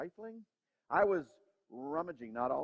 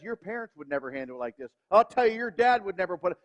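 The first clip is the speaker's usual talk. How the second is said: scolding inner voice; 6 dB louder than usual. Retold or imitated. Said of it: "some little voice that says".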